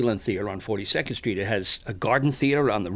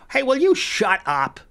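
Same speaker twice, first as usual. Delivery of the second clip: higher, slower irritated demand; rude snap; 9 semitones higher, 4 dB louder, slower than usual. Retold or imitated. Rude guy silencing a mumbling woman, irritated demand. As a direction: tell her off rudely. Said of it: "turns around and goes".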